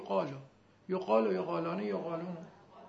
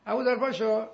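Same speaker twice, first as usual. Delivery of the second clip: put-on parent calling a child by name, last call louder; calling a son; 5 dB louder than usual. Parent calling the son Abuzar to wake up, growing louder. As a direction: call your boy to get up, rising to a louder call. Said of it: "دائما پسر صدا کنی".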